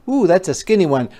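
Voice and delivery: ooh surprise. Acted. Admiring a vase.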